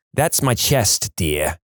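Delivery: slow, imitated Boston Brahmin accent; mildly put-on Boston Brahmin, unhurried. Little old lady correcting EMT, slow Boston Brahmin accent. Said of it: "replies in a T V-worthy Boston Brahmin accent".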